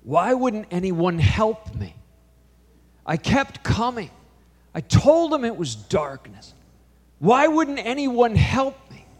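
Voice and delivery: slow, high-pitched cry for help, building to a loud yell; anguished yelling. Retold or imitated. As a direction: yell it across a big hall, drawn out and rising. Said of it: "She's yelling it across the auditorium".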